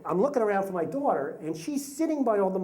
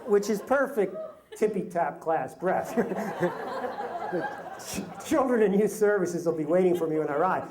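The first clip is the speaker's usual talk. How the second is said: laughing through words. Real, not acted. Laughing at his own story.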